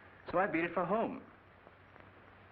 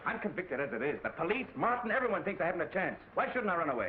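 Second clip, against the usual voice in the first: high, urgent and rising; desperate pleading; 4 semitones higher than usual. Acted. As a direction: plead in panic. Son pleads desperately with father.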